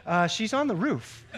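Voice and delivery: punchline with a laugh. Retold or imitated. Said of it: "He says".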